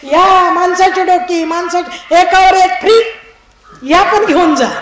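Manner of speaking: loud, slow, pleading sales shout; desperate hawker. Acted. Minister pleading with fleeing crowd, desperate loud shout. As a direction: beg the crowd to buy. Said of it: "प्रधानजी म्हणाले".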